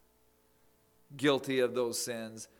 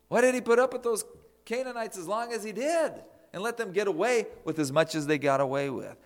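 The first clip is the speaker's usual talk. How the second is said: higher and louder, pushing "did" even harder; rising outcry; 8 semitones higher, 8 dB louder than usual. Real, not acted. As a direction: build the outcry to its peak. Preacher's rhetorical outcry, building.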